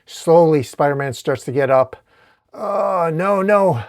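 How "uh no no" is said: higher, effortful voice; struggling hero pushing through; straining effort. Acted. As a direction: speak while heaving up a great weight. Spider-Man straining to lift rubble.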